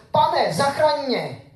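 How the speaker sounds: cry for help. Acted. Sinking Peter crying to Jesus for rescue, mock desperate. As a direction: call out as if sinking in the waves.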